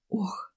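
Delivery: breathy whispered sigh; a soft tired sigh of reluctance; heavy sigh. A narrator's reading. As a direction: let out a weary, heavy sigh. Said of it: "Галина тяжело вздохнула".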